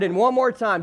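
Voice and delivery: normal talking voice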